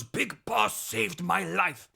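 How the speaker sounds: slow brooding rival. Retold or imitated. Fox's brooding confession.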